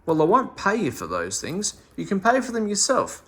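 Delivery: mildly angry. Acted. Missus Binks refusing to pay Meddle for the shopping, angry. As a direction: scold him, getting crosser. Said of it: "said Missus Binks angrily".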